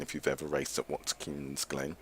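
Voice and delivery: slight lisp on the s sounds; lisping through the words. Real, not acted. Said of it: "hear me lisping".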